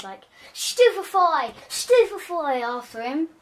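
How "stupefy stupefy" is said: high, loud and slow spell shouts; shouted spells. Acted. Luna firing hexes after the fleeing bully, shouting. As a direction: hurl each spell out at full voice. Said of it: "just firing hexes".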